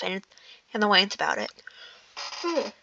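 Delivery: slowing down mid-yawn, words stretched out. Real, not acted. Reader yawning while reading Thorin's line, slow and stretched. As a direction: yawn through the end of the line, slow and drawn. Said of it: "Sorry, I yawned".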